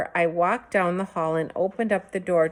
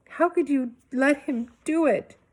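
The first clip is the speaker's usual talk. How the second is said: higher, whining accusation; accusing whine; 8 semitones higher than usual. A narrator's reading. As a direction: plead in outrage. Boy accuses mother.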